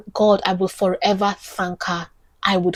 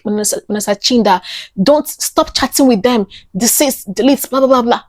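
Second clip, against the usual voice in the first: higher-pitched, urgent retold plea; acted-out appeal to stop; urgent warning; 4 semitones higher, 4 dB louder than usual. Friend warning the group about an impostor, urgent.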